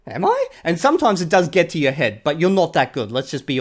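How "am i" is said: chuckle, half believing the praise; flattered laugh. Retold or imitated. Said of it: "You're like".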